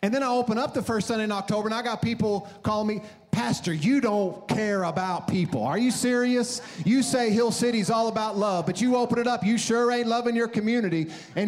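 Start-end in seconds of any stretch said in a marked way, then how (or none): 3.3-11.1 higher, indignant mock complaint; accusing caller. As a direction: imitate an outraged caller scolding the pastor. Acting out opposite angry callers.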